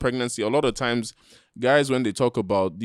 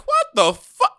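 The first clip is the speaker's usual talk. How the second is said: mock shock; 8 dB louder, slower than usual. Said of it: "You're like".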